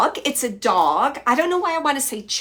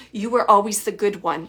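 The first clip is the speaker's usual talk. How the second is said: a touch louder, mother's fond reproach; mom's way of saying it; 4 dB louder than usual. Retold or imitated. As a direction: say it like mom would, lightly pointed. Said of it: "I'm just gonna say how she said it".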